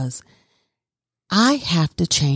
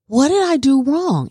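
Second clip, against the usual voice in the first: higher, pleading question with a push on "did"; higher pleading "What did I do wrong?"; retold plea to teacher; 9 semitones higher than usual. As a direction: ask the teacher anxiously, leaning on "did". Asking teacher after class.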